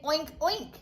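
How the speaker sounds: light mock oinking; a hint of a pig snort; pig oink imitation. Shown as a demonstration. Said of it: "Or does a pig say".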